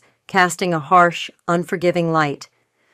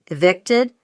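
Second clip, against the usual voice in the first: feigned shock. Acted. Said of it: "feigning shock".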